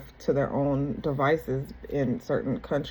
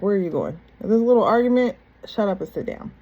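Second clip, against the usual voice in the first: imitating a rude telling-off; mock being rudely dismissive, jumping up in pitch midway; retold argument, snapping rudely; 4 semitones higher, 4 dB louder than usual. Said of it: "he was being rude about it".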